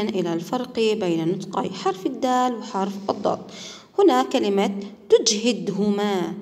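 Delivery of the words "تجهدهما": تجهدهما said slowly, each sound spelled out with a clear د; slow teacher model of تجهدهما, crisp د; careful demo pronunciation. Shown as a demonstration. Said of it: "حرف الدال في وسط الكلمة". (نطق بطيء واضح لكلمة تجهدهما بدال واضحة)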